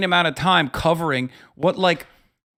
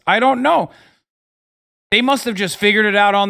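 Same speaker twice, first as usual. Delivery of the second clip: sarcastic; 5 semitones higher, 3 dB louder than usual. Acted. Sarcastic shrug.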